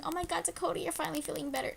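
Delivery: playfully voiced audience gasp of relief; mock excited viewers. Voices what viewers are thinking.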